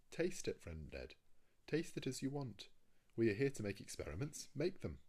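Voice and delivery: high-pitched, emphatic go-ahead; hearty urging. A narrator's reading. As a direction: urge your friend on with lively insistence. Master eagerly urges Ned to go ahead.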